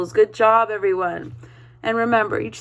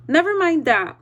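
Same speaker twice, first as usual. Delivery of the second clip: a curt, sharp retort; strict Miss Swamp brushes off the kids' question, snapping; snapped; 5 semitones higher than usual. Acted. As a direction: cut the kids off sharply. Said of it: "snapped Miss Swamp".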